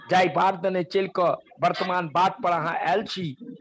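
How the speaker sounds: slow, measured Maithili poem recitation; slow poem recital. Shown as a demonstration. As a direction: recite the poem slowly so all can follow. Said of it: "मैं आज धीरे-धीरे पढूं ताकि सभी समझ सके".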